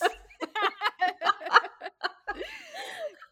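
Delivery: high, loud burst of laughter. Real, not acted. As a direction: crack up out loud. Laughing at own pirate.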